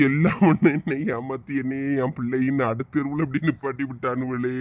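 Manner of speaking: low tearful wail breaking into sobs; weeping, low-pitched lament; crying like a child. Acted. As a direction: break down and sob it out. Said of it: "குழந்தை கிடங்க அழியாரு".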